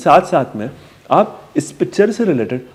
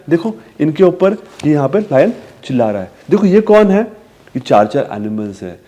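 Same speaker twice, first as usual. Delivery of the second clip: sing-song pointing; talking to a toddler. Shown as a demonstration. Parent showing four animals to a child, sing-song. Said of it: "repeat कर रहे हो".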